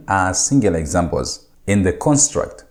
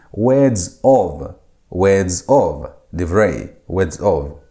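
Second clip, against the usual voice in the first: slow teaching delivery; 3 semitones lower, much slower than usual. Shown as a demonstration. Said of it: "by adding of".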